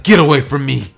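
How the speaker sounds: acted burst of irritation; Bakugo snapping. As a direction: push them away with your voice. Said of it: "Bakugo's like".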